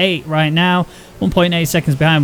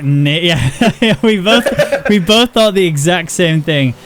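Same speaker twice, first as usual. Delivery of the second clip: laughing; much slower than usual. Real, not acted. Both reacted identically, laughing.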